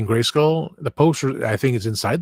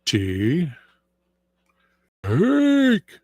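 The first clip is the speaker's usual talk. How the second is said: split name; 6 semitones higher than usual. Retold or imitated. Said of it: "and I went".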